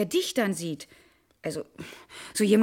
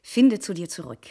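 lower, sing-song parroting; mocking echo; 5 semitones lower than usual. Wife mocking her husband's phrases, sarcastic echo. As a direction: parrot his words with scorn. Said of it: "mit deinen Kalendersprüchen".

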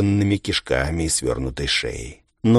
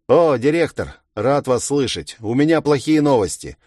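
cheery voice; 7 semitones higher, 4 dB louder than usual. Acted. Ichiro calls in, upbeat voice.

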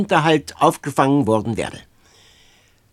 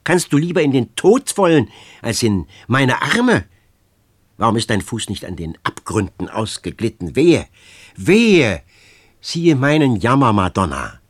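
desperate outcry; 5 dB louder than usual. Acted. Desperate girl crying out.

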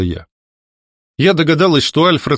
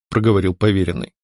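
usual speaking voice

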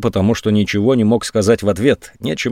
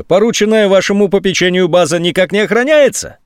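surprised; 9 semitones higher than usual. A narrator's reading. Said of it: "удивился генерал".

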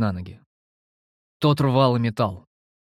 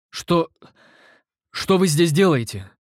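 higher, shaken stammer; shaken, trembling; 5 semitones higher, 3 dB louder, slower than usual. A narrator's reading. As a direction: squeeze it out, shaken by shock. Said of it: "дрожащим от потрясения голосом выдавил я". (дрожащий от потрясения голос, чуть выше)

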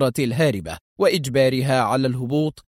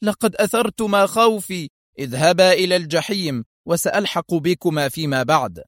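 higher, teasing scorn at the start; mock the pursuers lightly; 4 semitones higher than usual. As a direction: Adham taunting the pilots with sarcasm. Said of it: "في سخرية".

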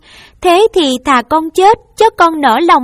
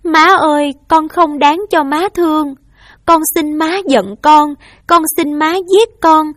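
higher, raised voice, begging through tears; tearful pleading; 5 semitones higher, 4 dB louder than usual. Acted. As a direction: beg your mother to let you take the blame. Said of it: "ôm mẹ khóc và nói".

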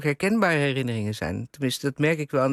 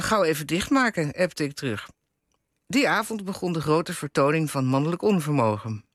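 lively read-aloud with lightly acted dialogue; column reading aloud. A narrator's reading. Interviewer reads the author's column aloud, lively storytelling. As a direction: read a wry domestic story to an audience.

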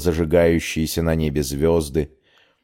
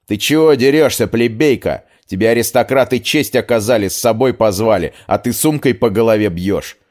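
angry shout; 4 semitones higher, 3 dB louder than usual. Acted. Aristocrat yells at girl hitting.

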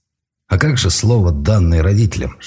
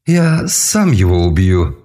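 shrieking; slower than usual. Acted. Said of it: "взвизгнул Эльрах".

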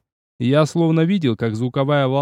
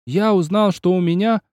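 wailed echo; 4 semitones higher than usual. Acted. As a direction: echo the verse back as a holler. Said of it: "заголосил Киоси".

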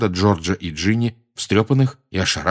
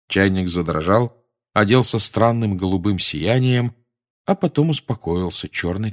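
ordinary delivery, nothing marked

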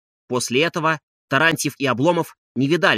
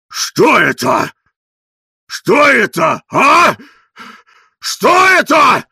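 stunned outcry; 9 semitones higher, 9 dB louder, much slower than usual. A narrator's reading. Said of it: "Бледный, задыхаясь".

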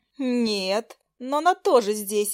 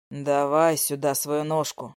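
low man; 7 semitones lower, slower than usual. Acted. Nikita tends her foot.

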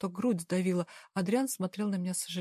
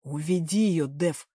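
growled; 4 semitones lower, slower than usual. Acted. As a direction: growl it, no time to argue. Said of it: "рыкнул Вистарда".

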